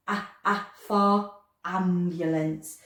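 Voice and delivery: slowly A, A for ambulance, the A stressed; slow sounding out. Shown as a demonstration. Teacher stressing the first sound for children: slow. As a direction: stretch the A sound out for the class. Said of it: "We have to slow that one right down".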